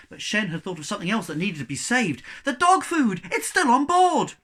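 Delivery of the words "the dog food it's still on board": high, loud cry; shout. A narrator's reading. Cabin boy crying out about the dog food. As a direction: cry out in alarm. Shen cries out.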